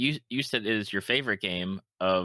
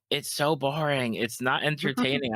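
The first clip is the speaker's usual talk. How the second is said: put-on bored kids; 6 semitones higher than usual. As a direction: drag it out like an unimpressed child. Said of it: "and they're like".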